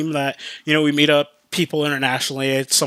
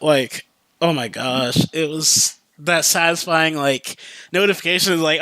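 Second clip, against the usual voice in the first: ordinary delivery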